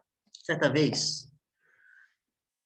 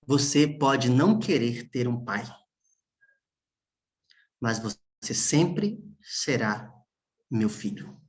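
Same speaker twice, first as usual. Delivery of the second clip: fading into a near whisper; mild tearful hush; tearful father; slower than usual. Retold or imitated. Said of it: "E no meio das suas lágrimas".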